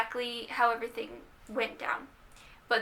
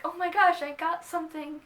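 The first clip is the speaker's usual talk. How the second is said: excited; 5 semitones higher than usual. Retold or imitated. Thrilled at getting a gift.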